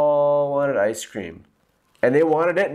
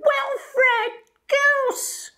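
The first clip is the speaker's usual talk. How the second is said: very high shrill full-name yell; yelling principal; much slower than usual. A narrator's reading. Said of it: "she was yelling now".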